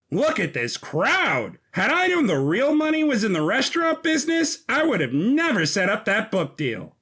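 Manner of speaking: high, fast, bubbly manager gushing over the crowd; Digby voiced high and quick, thrilled at the packed pub; giddy business manager. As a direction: rattle it off like an excited money man. Digby voiced over several lines.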